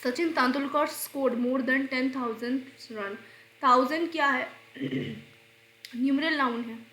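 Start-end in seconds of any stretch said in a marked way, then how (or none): 0.0-3.2 slow, careful read of the sentence; slow dictation. Shown as a demonstration. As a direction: read it out word by word for students. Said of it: "reads example sentence slowly".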